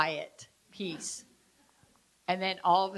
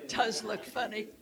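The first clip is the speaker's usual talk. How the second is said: laughing; 2 semitones higher than usual. Real, not acted. Watching volunteer yawn, laughing.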